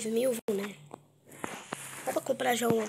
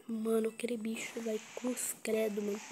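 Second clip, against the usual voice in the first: whispering; 6 dB quieter than usual. Real, not acted. After scare, whispering.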